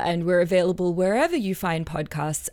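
usual speaking voice

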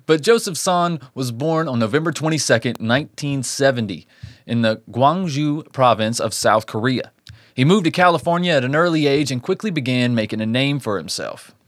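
measured storyteller read; true-crime narration. A narrator's reading. Host tells listeners of a Christmas Eve attack, measured narration. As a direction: narrate the case from a script.

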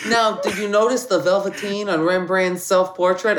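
put-on laughing, a faint Boston accent; lightly Boston guard. Guard asking the visitor about the Rembrandt, a faint Boston accent. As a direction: play the eager museum guard, barely Boston. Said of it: "he goes".

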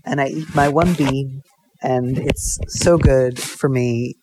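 simple French farmer, slow and earnest; badly faked French accent, words drawn out; mock French accent. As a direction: play a humble farmer with a hazy French accent. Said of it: "things with a French accent".

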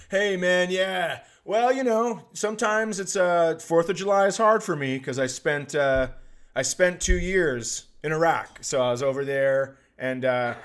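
hammed-up somber soldier story; solemn veteran. Gamer claiming war service, lightly voiced solemn veteran.

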